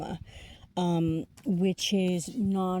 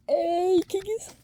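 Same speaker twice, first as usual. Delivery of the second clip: surprised; 12 semitones higher, 5 dB louder than usual. Real, not acted. Suddenly spots the King card.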